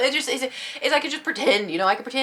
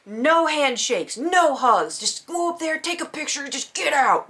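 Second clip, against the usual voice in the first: brisk, higher staff voice reading rules; 6 semitones higher, 3 dB louder, slower than usual. Retold or imitated. Event staff barking rules at fans, higher brisk. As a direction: rattle off the rules like a handler. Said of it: "they're like".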